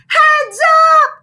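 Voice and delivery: high, loud sudden yelp; a startled high yelp. A narrator's reading. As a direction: yelp a warning. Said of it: "she yelped".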